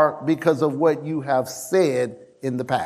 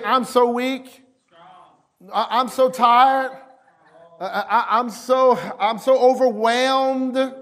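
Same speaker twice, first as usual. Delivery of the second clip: higher, whiny complaint of being tired; mock weak whining; 4 semitones higher than usual. Preacher mocking weak believers, whiny. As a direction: whine it like a worn-out weakling. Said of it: "Let the weak say".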